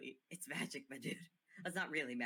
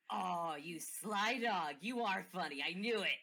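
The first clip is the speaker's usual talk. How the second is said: delighted; 3 semitones higher, 5 dB louder, slower than usual. Acted. Guy delighted at Briar's joke.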